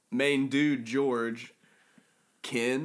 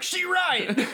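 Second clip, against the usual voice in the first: pimp voice; 3 dB louder than usual. Retold or imitated. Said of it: "And he's like".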